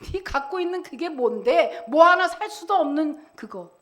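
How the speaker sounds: lightly acted scornful jibe; retold mockery. The world belittling what believers have, mild mocking jibe. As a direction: needle them with a dismissive question. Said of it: "조롱하고".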